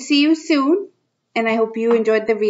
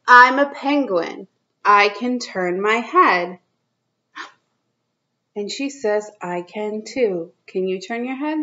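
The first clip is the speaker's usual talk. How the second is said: put-on reading to children. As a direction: read it out to little kids, drawing each line out. Reads picture book to kids.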